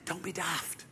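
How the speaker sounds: soft, low-key fond reproach; gentle chiding. Acted. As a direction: brush off his doubt quietly. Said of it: "He clapped him on the".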